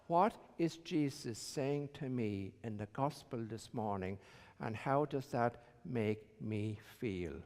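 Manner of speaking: hushed reflective echo of the question. Shown as a demonstration. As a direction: say it again quietly, as if to yourself. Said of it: "a good way of approaching it is to ask yourself".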